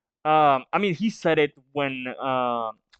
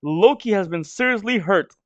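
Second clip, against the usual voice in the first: gleeful repeat; 4 semitones higher than usual. Real, not acted. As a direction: say it with triumphant glee. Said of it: "There we have it".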